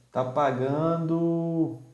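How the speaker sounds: slow words through a yawn. Real, not acted. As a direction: yawn while speaking. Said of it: "Desculpa aí os bocejos". (falando bocejando)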